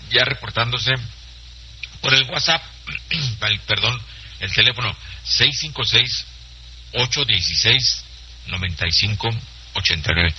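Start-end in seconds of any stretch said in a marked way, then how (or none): 5.2-10.3 phone number in careful groups; slow dictation. Real, not acted. Host gives listeners the phone number, slowly. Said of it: "Se lo digo despacito".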